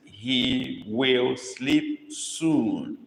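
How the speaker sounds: He will sleep soon, slow, with will sleep lifted and stretched; stress on will sleep. Shown as a demonstration. Teacher dictating with the verb stressed, slow. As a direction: lean on will sleep and take it slowly. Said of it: "This emphasis here is will sleep".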